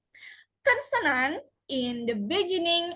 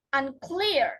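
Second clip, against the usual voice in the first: unCLEAR, light un-, weight on clear; prefix left unstressed. Shown as a demonstration. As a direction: stress the second syllable of unclear. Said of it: "prefix and suffixes are not usually stressed".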